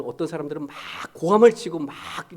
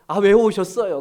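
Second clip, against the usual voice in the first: playful blunt teasing; 3 semitones higher, 6 dB louder than usual. Retold or imitated. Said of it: "그랬어요, 제가".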